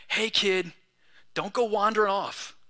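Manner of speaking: gentle, unraised warning; lovingly. Shown as a demonstration. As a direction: say it kindly, like a caring elder. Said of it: "can I just lovingly and respectfully say".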